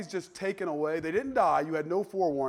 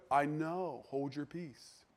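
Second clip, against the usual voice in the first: softly restrained reply; quieter, gentler way to silence them; nicer retort; 2 semitones lower, 9 dB quieter, much slower than usual. Retold or imitated. Prophet answering the same reminder politely, nicer. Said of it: "He said it much nicer than that".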